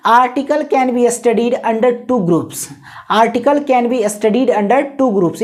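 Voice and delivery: very slow, word-by-word dictation. Shown as a demonstration. Teacher dictating slowly to students as they copy. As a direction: dictate it slowly while writing on the board. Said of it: "आपको मैं यहाँ पे लिख देता हूँ".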